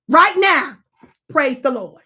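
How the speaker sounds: preacher call. Acted. Streamer calls chat to praise like a preacher. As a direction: rouse the congregation to praise.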